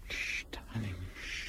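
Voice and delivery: soothing whisper. Acted. Husband soothing crying wife.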